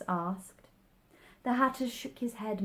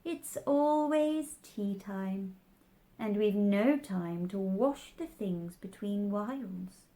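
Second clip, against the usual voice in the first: sighing. Acted. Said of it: "said the Hatter with a sigh".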